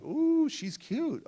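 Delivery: high, slow swooning "Ooh"; smitten coo. Retold or imitated. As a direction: coo it like a lovestruck teenager. Smitten teen sees girl smile.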